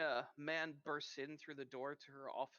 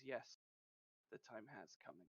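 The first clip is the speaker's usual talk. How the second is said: lower, much softer foreboding line; ominous hush; 4 semitones lower, 9 dB quieter than usual. Acted. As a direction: let the words fall heavy and quiet. Wife speaks ominously.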